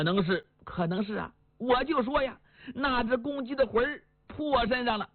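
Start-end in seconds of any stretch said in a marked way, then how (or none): 1.6-5.1 fretful wife. Acted. Wife tells husband and son the rooster scared her, fretful. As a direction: wail it like a spooked wife.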